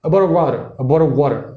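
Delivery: Black American English accent, fast and connected. Shown as a demonstration. Teacher demoing Black English speech to the host. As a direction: run the words together in Black English. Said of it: "o Black English".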